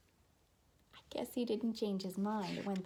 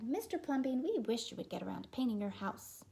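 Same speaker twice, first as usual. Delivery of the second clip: nagging neighbors; 4 dB louder than usual. Acted. Neighbors nag Plumbean.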